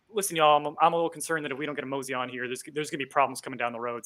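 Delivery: light Dakotan-meets-Southern drawl. Shown as a demonstration. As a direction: mumble along in a mild Southern twang. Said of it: "not quite a Southern drawl".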